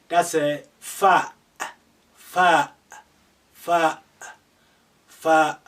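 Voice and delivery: fa said loud and clear with a short a; letter fa demo. Shown as a demonstration. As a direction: repeat fa for the students to copy. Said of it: "teaching the letter fa".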